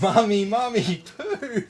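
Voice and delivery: put-on high, loud child's squeal; excited kid. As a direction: replay the kid's delighted yell. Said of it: "so excited".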